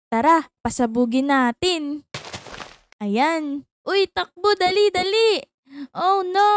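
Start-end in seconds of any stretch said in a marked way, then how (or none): 3.9-6.5 urgent shout. Acted. Fleeing the TNT blast.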